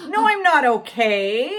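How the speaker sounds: loud, slow indignant comeback; indignant retort. Retold or imitated. Driver answering the cop's question, indignant. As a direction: draw it out, loudly offended. Acted quarrel with the cop.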